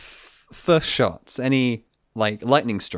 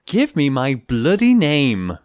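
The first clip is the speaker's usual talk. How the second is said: mock British demand; 3 semitones higher, 5 dB louder, slower than usual. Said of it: "you gotta say the magic word".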